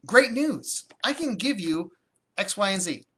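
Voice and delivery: cheerful agent announcing the offer; upbeat, confident. Shown as a demonstration. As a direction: sell it like a win. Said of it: "what I like to say is".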